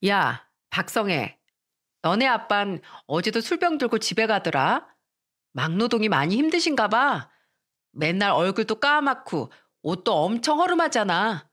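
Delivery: mildly jeering schoolgirl jibe; sarcastic taunting. Acted. Classmate needling a girl about her father, sarcastic. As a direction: taunt a classmate with mock concern. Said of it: "비아냥거리면서 말했습니다".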